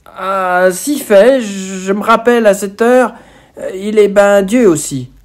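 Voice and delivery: put-on a nervous boy correcting himself; flustered boy quickly correcting his wrong answer; flustered schoolboy. A narrator's reading.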